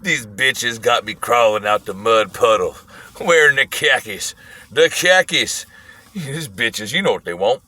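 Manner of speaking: put-on low, grumbled old-man rant; imitated old man going off. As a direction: grumble to yourself like a cranky old passenger. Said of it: "he's just going off".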